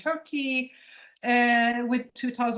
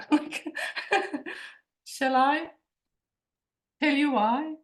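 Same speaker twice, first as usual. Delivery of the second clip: a laugh, then a higher playful question; laughing tease; 5 semitones higher than usual. Real, not acted. Speaker to her audience, teasing with a laugh.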